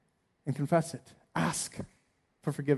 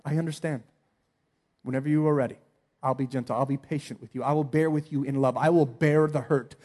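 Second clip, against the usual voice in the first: gentle patient reply. Pretend. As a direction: speak gently to the hurt one. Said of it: "You say".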